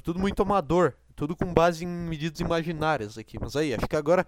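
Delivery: ordinary talk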